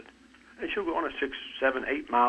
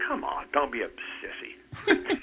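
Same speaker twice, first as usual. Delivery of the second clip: laughing tease; 2 semitones higher than usual. Retold or imitated. Daughter teasing the boys.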